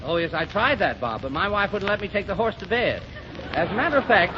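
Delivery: ordinary talk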